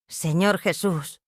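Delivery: hushed prayer. Acted. A mother kneeling at her altar, praying in a slow hush. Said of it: "oré mientras sostenía mi rosario".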